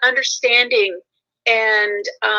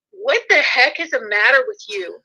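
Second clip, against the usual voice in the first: retold snotty scolding; 2 semitones higher than usual. Snapped at a chewing family member over the edge, mildly snotty. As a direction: imitate your own snotty outburst, pitch rising on the second question. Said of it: "like, snotty, just snotty".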